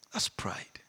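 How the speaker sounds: hushed, breathy aside; whisper. Real, not acted. Preacher to the congregation, a whispered aside. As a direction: lean in and breathe it.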